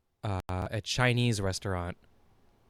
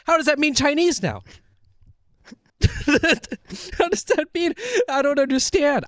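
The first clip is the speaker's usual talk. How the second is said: much higher, louder, laughing confusion; baffled disbelief; 4 dB louder than usual. Retold or imitated. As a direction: cry out, totally lost, half laughing. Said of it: "I'm like".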